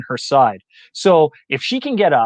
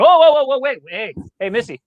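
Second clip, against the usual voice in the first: mock audience; 4 semitones higher than usual. The audience reacting to the speaker, mock startled and high. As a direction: play the shocked crowd calling out to Missy.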